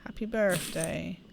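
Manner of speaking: soft unvoiced whisper; whispered reading of the tag. Real, not acted. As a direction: breathe the words under your breath.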